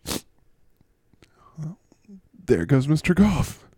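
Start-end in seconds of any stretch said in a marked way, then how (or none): 0.0-0.2 falsetto blubbering; crying character. Acted. Mister Golf thanks the host, then bawls over the playoffs. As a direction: break into a high, hammed-up wail. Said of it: "crying away".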